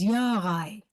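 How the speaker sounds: "Yarai" opened with a y sound; German pronunciation. Shown as a demonstration. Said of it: "in the German pronunciation".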